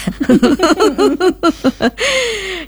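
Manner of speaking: a burst of high laughter mid-reading; amused high laugh after reading a funny line. Real, not acted. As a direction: break into a real laugh at the message. Laughs reading listener's message.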